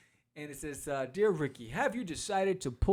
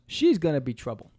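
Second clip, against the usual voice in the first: louder ominous warning line; mock warning; 9 dB louder than usual. Doomed henchman warns his crew, said loudly. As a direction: quote the doomed guy loudly. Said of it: "here he goes".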